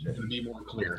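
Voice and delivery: muffled as if underwater; bad line, voice bubbling like underwater. Real, not acted. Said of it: "You do sound like you're underwater".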